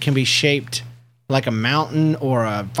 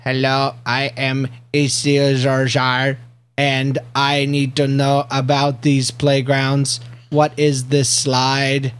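alien voice; slower than usual. Pretend. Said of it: "an alien kid comes down from another planet".

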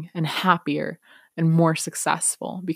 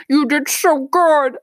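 higher, slow, louder teacher praise; kind teacher; 10 semitones higher, 6 dB louder, slower than usual. Retold or imitated. Kind teacher praising the student, high and slow. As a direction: beam it out slowly to the child. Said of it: "she was like".

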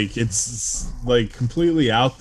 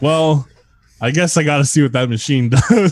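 laughing self-quote; 5 semitones higher, 6 dB louder than usual. Retold or imitated. Retelling his own tempted reaction.

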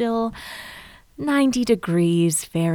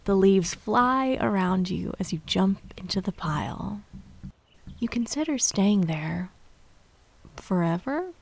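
soft spa whisper; 3 dB quieter than usual. Acted. Leads autumn dream visualization.

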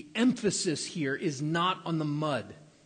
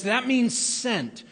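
slow, raised "That means sent"; emphatic; 7 semitones higher, 5 dB louder, slower than usual. Acted. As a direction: stress "sent" slowly. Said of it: "John even says".

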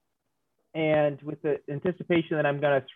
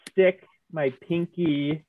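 laughing; 3 semitones higher, much slower than usual. Real, not acted. Giggling through absurd game action.

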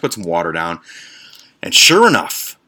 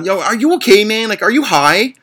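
mocking retort; 12 semitones higher, 4 dB louder than usual. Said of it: "So I say".

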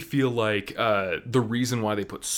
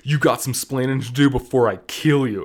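mock threat; 7 dB louder than usual. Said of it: "she's like".

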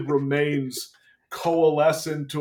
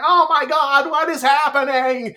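mock panicked shock; 11 semitones higher, 6 dB louder than usual. Retelling the hero's drug-fuelled shock.

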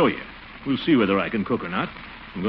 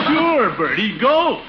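higher, louder, laughing out the words; giggling as he gives in; quoting himself through laughter; 10 semitones higher, 6 dB louder, much slower than usual. Real, not acted. Laughing, repeating his own words.

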